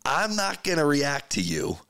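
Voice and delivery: God declining to take the bait, lightly voiced. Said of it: "you trusted a God that said".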